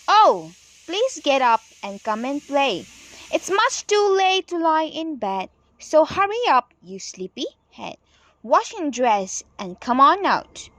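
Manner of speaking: lively sing-song poem reading; reading a poem to children. Acted. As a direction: read it bright and bouncy for the class. Reads the nursery poem aloud.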